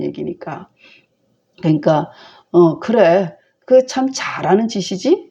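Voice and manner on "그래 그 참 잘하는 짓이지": higher, mocking "nice going"; a father's sarcastic rebuke; sneering. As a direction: needle him with fake approval. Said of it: "빈정대는 거죠".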